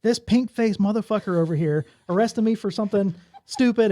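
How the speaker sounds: hammed-up drunk lady yelling at the sergeant; retold drunk insult. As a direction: drunk woman to the sergeant, mock angry outburst. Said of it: "she goes".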